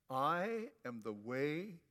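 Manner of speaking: slow, measured lead-in for the congregation; relaxed recital. Shown as a demonstration. Preacher leading the congregation to say it, relaxed and slow. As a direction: say it slowly and evenly, relaxed. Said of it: "get relaxed and say it".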